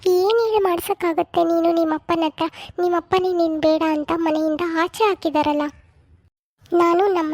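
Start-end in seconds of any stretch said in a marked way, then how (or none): 0.1-5.6 lightly voiced older mother, coaxing; a hint of a fussing village mother-in-law; mother-in-law soothing the new bride.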